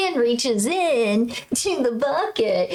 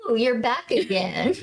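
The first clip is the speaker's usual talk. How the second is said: understated stern remark, near usual pitch; mildly stern. Retold or imitated. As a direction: retell it with a touch of sternness. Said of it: "I did sternly say".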